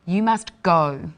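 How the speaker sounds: firm "must go", ending on a final "go"; ordering someone away. Shown as a demonstration. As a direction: order them out with "You must go". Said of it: "another example of how inflection changes".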